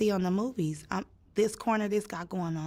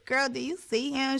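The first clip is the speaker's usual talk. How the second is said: higher, drawn-out question to a friend; retold amazed question; 6 semitones higher than usual. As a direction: stretch it slowly in mild disbelief. Asking friend, before the screamed repeat.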